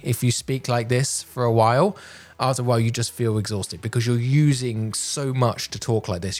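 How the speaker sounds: full, booming projected voice without shouting; projecting from the diaphragm. Shown as a demonstration. Speaker showing learners how a projected voice sounds, booming from the diaphragm. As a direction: push the voice out from the belly, steady and strong. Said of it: "You're projecting".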